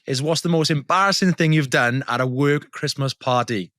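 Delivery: slow, announcer-style segment read; podcast segment intro. Acted. Host introducing the weekly question, announcer style.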